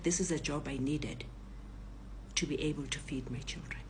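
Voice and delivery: low, soft justification; subdued confession. Retold or imitated. Robber says he needed the job, low and sincere. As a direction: confide it quietly, with sincerity. Robber explains himself apologetically.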